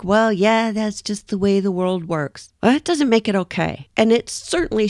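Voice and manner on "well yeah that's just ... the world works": higher-pitched mock brush-off; dismissive shrug-off. People excusing contempt as normal, mildly dismissive. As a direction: imitate people fluffing it off. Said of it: "they fluff it off".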